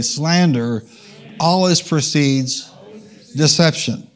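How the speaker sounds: "Slander", pause, "always precedes", slowly, pause, "deception"; call-and-response. Shown as a demonstration. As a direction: prompt the crowd, setting "Slander" and "deception" apart. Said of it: "Say that with me".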